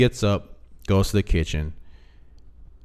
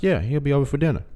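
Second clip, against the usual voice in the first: breezy wife; 7 semitones higher, much faster than usual. Retold or imitated. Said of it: "He's like".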